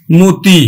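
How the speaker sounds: মতি said "mo-ti", first vowel a rounded o; low, firm "mo-ti" for মতি; closed O sound. Shown as a demonstration. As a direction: demonstrate মতি with "mo" as in "most". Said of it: "উচ্চারণ আমরা করব কিন্তু".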